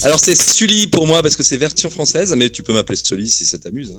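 tinny voice over a phone line; metallic phone voice. Real, not acted. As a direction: sound like a thin satellite call. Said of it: "vous avez une voix un peu, un peu métallique".

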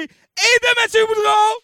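high, held-out announcer call; announcer introduction. Pretend. Auction host presenting his sidekick, high announcer call. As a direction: stretch the name out high.

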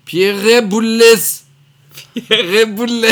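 Pierre Boulez traîné, plus aigu et fort, comme une bande déformée; bande repassée à l'endroit. Shown as a demonstration. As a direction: imiter l'enregistrement inversé puis remis à l'endroit. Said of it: "Pierre Boulez passé à l'envers et repassé à l'endroit". (voix de bande magnétique déformée)

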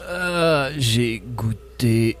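zombie. Acted. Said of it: "Zombibou et Zombibounet".

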